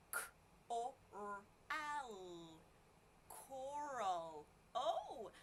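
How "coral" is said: Coral said at normal quicker speed. Shown as a demonstration. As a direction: say Coral briskly in one go. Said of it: "I said it quicker".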